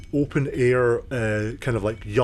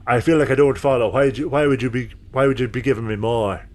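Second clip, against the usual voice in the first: dwarf who can't follow the offer; puzzled dwarven smith; 2 semitones higher than usual. Acted.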